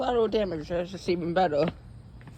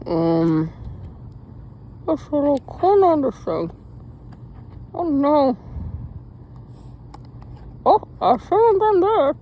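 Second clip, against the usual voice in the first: phone held in teeth; 2 semitones higher, 5 dB louder than usual. Real, not acted. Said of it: "Got a phone in my mouth right now".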